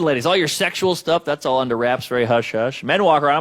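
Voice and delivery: usual speaking voice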